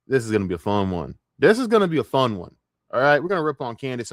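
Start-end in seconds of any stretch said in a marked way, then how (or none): 1.4-2.5 higher, louder, eager announcement; hyped up. Real, not acted. Streamer about to rip on a commentator, hyped up. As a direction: punch it up with gleeful anticipation. Same line repeated with more hype.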